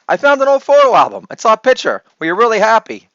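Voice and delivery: lightly voiced young daughter. Shown as a demonstration. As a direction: lift into a small girl's voice. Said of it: "This delivery needs improvement".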